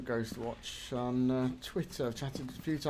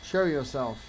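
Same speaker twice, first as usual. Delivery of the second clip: firm, louder command; authoritative English voice; 5 dB louder than usual. Real, not acted. Ghost hunter commands the spirit to appear, authoritative. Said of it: "trying for the authoritative English voice".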